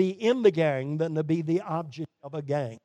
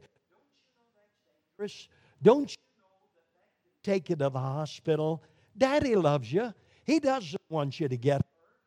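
gentle warning. Acted. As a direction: plead with him to be safe. Father gently warning son.

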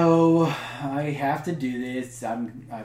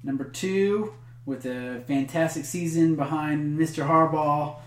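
top ten countdown. Acted. Countdown reveal continues.

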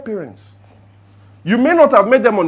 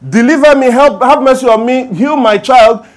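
pleading; 7 semitones higher, 10 dB louder than usual. Retold or imitated. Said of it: "after she cried".

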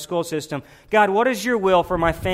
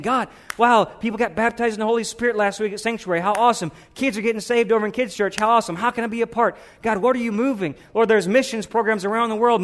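excited prayer; 5 semitones higher than usual. Acted. Acting an excited believer's prayer.

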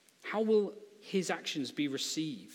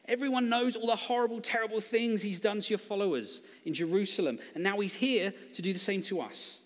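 nervous backtracking; 4 semitones higher than usual. Acted. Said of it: "tries to get out of it and backtrack".

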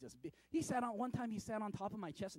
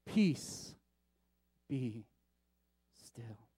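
God's voice; 7 semitones lower, much slower than usual. Acted. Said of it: "hear not my words, but God's words".

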